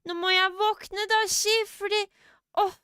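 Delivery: put-on high-pitched kids' show teddy bear; cartoon teddy bear. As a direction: imitate a weary little teddy, high and drawn out at the end. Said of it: "I sound like that teddy bear".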